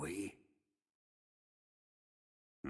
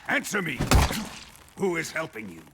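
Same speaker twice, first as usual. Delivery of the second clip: "Answer me!" shouted higher and louder; barked demand; 4 semitones higher, 5 dB louder, faster than usual. Acted. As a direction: snap the order at him.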